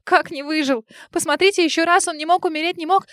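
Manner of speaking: high, loud desperate cry; desperate scream. A narrator's reading. To the gynecologist, a high loud desperate scream. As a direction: scream it at the doctor in disbelief. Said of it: "закричала Варя".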